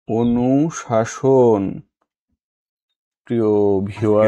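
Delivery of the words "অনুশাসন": অনুশাসন slowly as "onushashon"; slow, careful অনুশাসন with sh sounds; correct pronunciation. Shown as a demonstration. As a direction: stretch অনুশাসন syllable by syllable. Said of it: "শুদ্ধ উচ্চারণ কোনটি".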